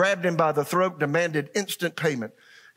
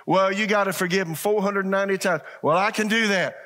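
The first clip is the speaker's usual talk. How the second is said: lightly acted, higher mock-earnest rule follower; mock literalist; 5 semitones higher, 3 dB louder than usual. Preacher acting out what Jesus wasn't saying, mock literalist. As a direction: put on a slightly higher voice of someone taking the rule literally. Mocking wrong reading of forgiveness.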